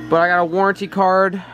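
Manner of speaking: stumbling around a cough drop; words slurred by a lozenge in mouth; sucking a throat lozenge. Real, not acted. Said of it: "hard to talk with the cough drop in my mouth".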